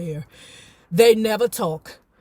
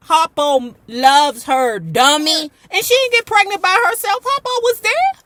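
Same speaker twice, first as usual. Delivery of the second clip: louder, rising higher; indignant clapback; 5 semitones higher, 6 dB louder than usual. Real, not acted. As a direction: snap back at him. Clapping back at the character.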